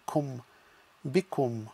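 "kum" closed syllable, then "bikum"; blended word. Shown as a demonstration. Teacher blending letters into one word. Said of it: "join to create one sound".

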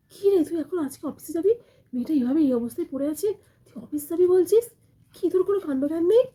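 scolding son. Acted. Mother-in-law scolding her son for going to the office. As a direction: tear into him for leaving.

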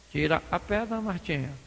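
low, patient persuasion; gentle coaxing. Acted. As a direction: coax her quietly. Jesus gently coaxing Marta.

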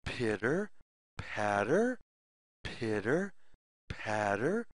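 low, rising pitter patter; playful low pitter patter for kids; armadillo patter. Retold or imitated. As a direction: patter it out low like little feet. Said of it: "makes the sound".

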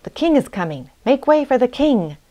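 building cry to clear the way; calling out. A narrator's reading. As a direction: call out a royal warning. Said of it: "he called out".

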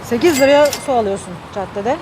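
talking around a candy in the mouth; candy in mouth while talking; sucking a hard candy. Real, not acted. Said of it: "Ağzımda şeker var kusura bakmayın".

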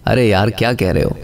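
low, easy "अरे यार क्या कह रहे हो"; demonstrated tone, milder take. Shown as a demonstration. Teacher showing tone changes meaning, milder take. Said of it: "अल्फाज की टोन जो है".

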